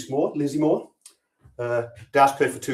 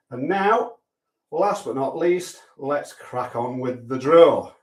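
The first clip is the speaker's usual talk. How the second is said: mock announcer voice; slower than usual. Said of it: "don't know why I'm talking like this".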